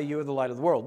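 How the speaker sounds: mumbled dully without meaning; flat, no enthusiasm. Shown as a demonstration. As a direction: say it flatly, as if it means nothing. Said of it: "Not say".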